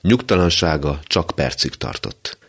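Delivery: usual speaking voice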